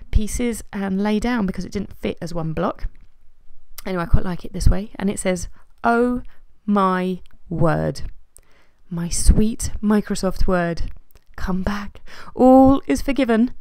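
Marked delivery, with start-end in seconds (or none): 5.8-13.5 slow, melodramatic plea read aloud; theatrical reading. Acted. Vlogger reads her journaling to viewers, theatrical reading.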